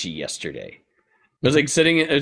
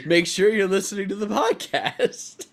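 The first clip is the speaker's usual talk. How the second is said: higher, laughing mock announcement; laughing mock plug; 10 semitones higher, 4 dB louder than usual. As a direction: parody the plug while cracking up. Mocking last week's promo plug.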